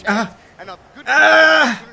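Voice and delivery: pained groan. Real, not acted. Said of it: "I'm cramping up".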